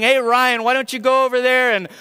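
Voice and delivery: proper request. Retold or imitated. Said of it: "instead of saying".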